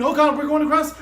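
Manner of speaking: high, loud cry of alarm. A narrator's reading. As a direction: shout the warning as the car slides. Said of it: "And Rube saying".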